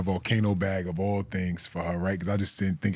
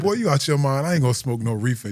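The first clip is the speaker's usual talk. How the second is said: put-on higher, louder scolding old lady; grandma telling off her grandson, a bit higher and louder; 4 semitones higher, 4 dB louder than usual. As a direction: put that boy in his place.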